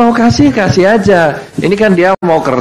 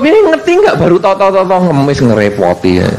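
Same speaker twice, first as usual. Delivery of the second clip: grumbling Jogja dismissal. Retold or imitated. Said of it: "Kalau ada orang ngemis pagi".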